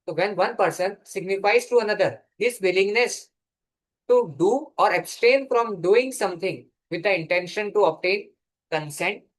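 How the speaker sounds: reads the definition word by word, very slowly; slow dictation. Shown as a demonstration. Law teacher dictating a definition to students, very slow.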